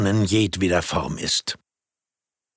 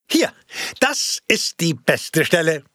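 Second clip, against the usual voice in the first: mild call; 7 semitones higher than usual. Acted. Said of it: "rief der Filmvorführer".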